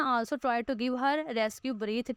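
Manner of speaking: slow, careful read-aloud of the English line; teacher dictating slowly. Shown as a demonstration. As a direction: read it word by word for the class. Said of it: "teacher reads the English text".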